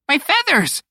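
very high bird squawk of dismay. A narrator's reading. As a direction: squawk it like a horrified parrot. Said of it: "Pico squawked".

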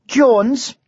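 high Welsh lilted name; Welsh dragon. A narrator's reading. Dragon tells the knight its name, Welsh lilt.

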